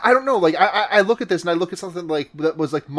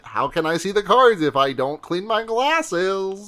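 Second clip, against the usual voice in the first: slow, lightly whiny himbo; dopey sweet himbo; 4 semitones higher, slower than usual. Retold or imitated. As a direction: ask helplessly and slowly. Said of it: "And he's like".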